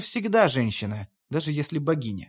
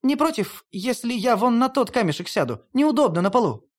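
put-on higher, coaxing young goddess; Hel, light girlish voice; 6 semitones higher than usual. A narrator's reading. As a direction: play Hel as a sly young woman. (высокий голос Хель, кокетливо)

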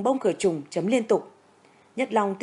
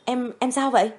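surprised hurried question; 4 semitones higher than usual. A narrator's reading. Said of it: "ngạc nhiên hỏi vội".

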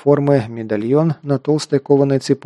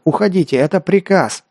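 higher-pitched, insistent order; mild urgent command; 6 semitones higher than usual. A narrator's reading. Hero orders friends to leave him, urgent command. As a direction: raise the pitch to command, without full shouting.

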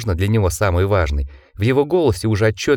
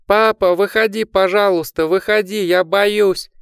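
put-on terrified child; 11 semitones higher than usual.

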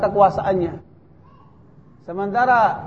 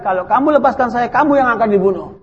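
louder, firmer, as Sa'id insisting; firm raised reply; 3 semitones higher, 6 dB louder than usual. Retold or imitated. Sa'id telling the guard firmly he will be killed. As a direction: press the point hard to the guard.

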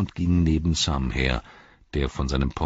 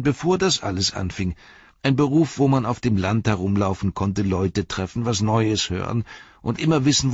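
higher and louder, wistful; rueful Robin; 9 semitones higher, 5 dB louder than usual. Acted. Robin lamenting his job to Sam, rueful. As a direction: remember better days with regret.

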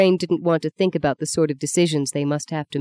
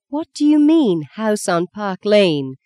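much higher squeaky disbelief, "Lane" drawn out slowly; stunned high-pitched question; astonished squeak; 4 semitones higher, slower than usual. Acted. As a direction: squeak "house on Park Lane?" in shock. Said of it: "Justine squeaked, astonished".

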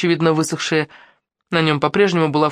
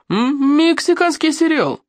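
mocking quip; 12 semitones higher, slower than usual. A narrator's reading.

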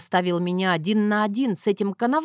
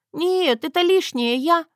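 very high, flustered refusal; panicked protest; 8 semitones higher, 4 dB louder than usual. Acted.

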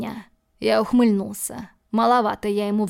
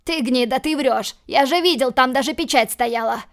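loud, higher angry yell; furious accusation; 3 semitones higher, 4 dB louder than usual. Acted. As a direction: hurl it at the liar. Dima accuses host of lying.

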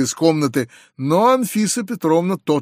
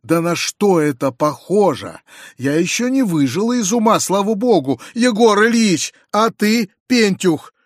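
raised, indignant scolding of a guest; shrill scolding; 3 semitones higher than usual. Acted. Outraged mother scolds the intruding guest, indignant. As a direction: scold them like an outraged hostess. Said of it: "продолжала она вопить".

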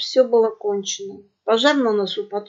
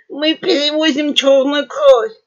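higher, louder yapping pug voices; lisping yap; 5 semitones higher, 7 dB louder than usual. A narrator's reading. Pug brothers confessing their cargo, yapping. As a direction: blurt it out in a burr. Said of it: "картаво затявкали братья Никаноркины".

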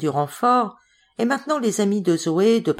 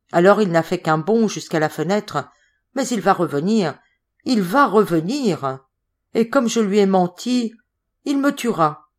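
tags 1; 2 semitones higher, 4 dB louder than usual. Acted. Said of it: "qu'elle délirait".

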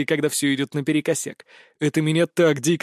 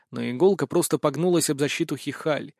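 plain reading voice

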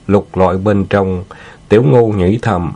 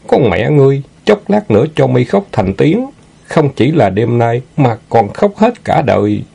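higher, resentful threat; vengeful hero's inner curse; 5 semitones higher than usual. Acted. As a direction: curse the villain inwardly with raised pitch.

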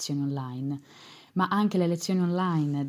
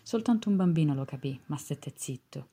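poetry reading. Acted. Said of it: "vi leggo una poesia".

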